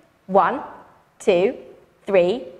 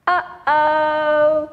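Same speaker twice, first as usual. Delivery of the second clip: uh-oh; 3 dB louder than usual. Shown as a demonstration. Audience refrain.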